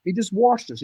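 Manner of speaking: high-pitched amazement, reliving the moment; incredulous storytelling, pitched well up; retold astonishment. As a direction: relive the shock of spotting him. Acts out astonishment at the buck.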